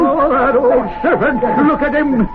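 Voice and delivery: high, breathless cries of alarm; excited shouting. Acted. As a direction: point and shout at the fire in disbelief. Seeing the devil in fireplace.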